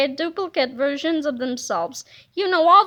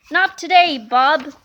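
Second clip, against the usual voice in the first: put-on cocky kid defiance; 5 dB louder, slower than usual. Hypnotist kids defy Krupp.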